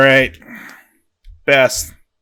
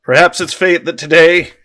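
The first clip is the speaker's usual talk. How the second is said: measured speech with pauses between phrases; mock-solemn commander's address; Independence Day speech. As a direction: announce it as a movie rallying speech. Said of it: "I'm gonna do the Independence Day speech".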